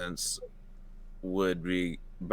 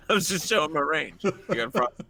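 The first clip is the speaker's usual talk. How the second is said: lightly voiced tough guy; a hint of a tough guy challenge; mock tough guy; 8 semitones higher, 5 dB louder, faster than usual.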